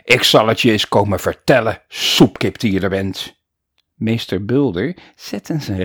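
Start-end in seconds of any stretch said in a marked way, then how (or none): 0.0-3.3 deep dangerous growl. Acted. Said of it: "gromde nu diep en gevaarlijk".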